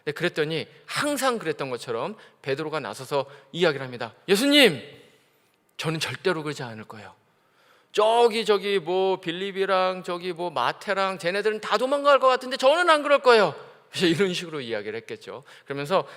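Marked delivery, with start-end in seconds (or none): 4.3-13.6 eager boast. Acted. Peter boasts loyalty.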